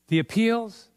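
retold disbelief. Singer questioning the director's request to do appeals, mock incredulous. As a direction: echo it back as if taken aback.

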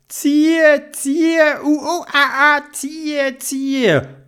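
high strained heaving voice; Dodo straining to pull. Acted. Dodo pulls Theobald from the mud, high and straining.

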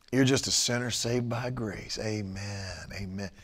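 low, soft sanctimonious murmur; mock churchy mumble; mock pious churchgoer. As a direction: mimic a smug believer, hushed.

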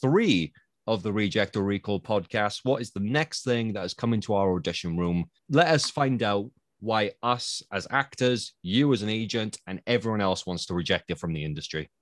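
bright presenter read to listeners; host voice introducing the next segment; podcast host link. Acted. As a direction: announce the next act like a show host.

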